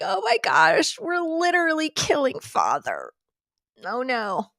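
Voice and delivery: put-on high, shouted kid panic; hammed-up childish alarm; mock childish panic. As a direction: play the horrified little kids. Retelling sensitive kids' panic.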